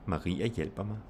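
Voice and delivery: "Maria" and "hjælper" stressed, "mig" unstressed. Shown as a demonstration. Teacher combining name and pronoun, no stress on "mig". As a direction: hit "Maria" and "hjælper", let "mig" fall light. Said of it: "you have the stress on Maria".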